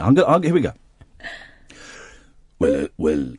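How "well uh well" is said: low-pitched Welsh singer impression; deep, halting Welsh voice. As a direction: drop deep into a Welsh accent. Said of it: "impression of a very famous Welsh singer".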